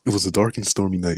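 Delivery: lightly deepened storybook narrator; ominous dark-and-stormy opener; deep narrator voice. Shown as a demonstration. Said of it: "Let me use my, my deep narrator voice".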